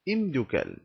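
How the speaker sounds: imdukel said clearly with a falling end; Berber plural. Shown as a demonstration. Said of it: "devient au pluriel". (imdukel articulé)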